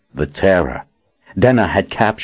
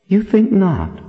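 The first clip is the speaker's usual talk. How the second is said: taunting; slower than usual. A narrator's reading. Denna's spirit taunting Richard.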